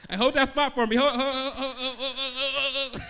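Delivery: loud, laughing plea to hold the parking spot; mock shout for help. Brakeless driver begs people to hold his parking spot, loud laughing shout. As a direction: yell across the lot, laughing and desperate.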